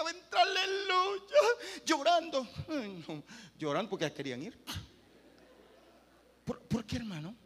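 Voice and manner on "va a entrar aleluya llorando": high, loud, slow cry of aleluya; ecstatic shout. Real, not acted. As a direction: shout it out in joy. Prophesying revival.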